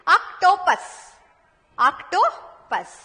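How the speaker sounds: slow, broken into parts for learners; slow word modelling. Shown as a demonstration. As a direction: sound it out slowly, pausing before the last syllable. Teacher models a new word slowly. (धीरे-धीरे, टुकड़ों में उच्चारण)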